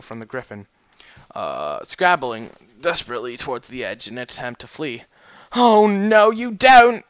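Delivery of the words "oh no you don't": loud high pirate yell; pirate shout. Acted. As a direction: bellow it at the fleeing dog. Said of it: "cried the pirate".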